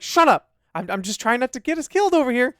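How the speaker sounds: high, loud mock snapping; retold irritated yell. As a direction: imitate an exasperated player telling someone off. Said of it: "And you're like".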